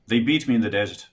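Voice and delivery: put-on Irish accent, even delivery. Shown as a demonstration. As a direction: say it as an Irishman would. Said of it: "try, try an Irish".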